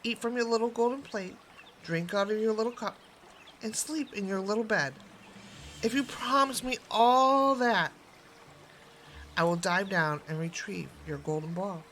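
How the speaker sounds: frog voice. Acted. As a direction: ask for it all. Frog sets his terms.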